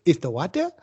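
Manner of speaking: bad Italian accent, toned down; terrible Italian accent. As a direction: imitate an Italian host, as a question. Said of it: "I'm just a terrible Italian accent".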